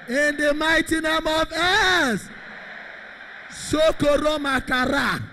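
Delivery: loud, chanting revival preacher, line after line; full-force preaching. Real, not acted. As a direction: declare blessings at a shout in repeated falling phrases.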